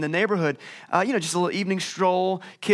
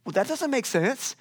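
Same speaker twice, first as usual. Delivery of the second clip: put-on little kid; 5 semitones higher than usual. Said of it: "But as a kid, you're like".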